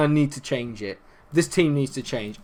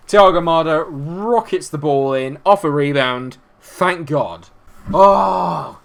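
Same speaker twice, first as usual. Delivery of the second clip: loud, stretched goal commentary rising into a big relieved cry; relieved goal call; 2 semitones higher, 6 dB louder, slower than usual. Real, not acted. Gamer seeing his team score at last, relieved. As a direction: call the goal slowly and loudly, then let it out.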